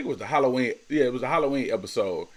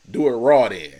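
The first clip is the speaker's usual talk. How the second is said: laughing punchline; 2 semitones higher, 11 dB louder than usual. Real, not acted.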